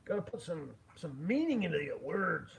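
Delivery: emphatic mock Scottish accent; butchered Scottish accent. Streamer coaching himself on meaning, mock Scottish accent. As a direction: lean into a put-on Scottish accent. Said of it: "butchering your accent there".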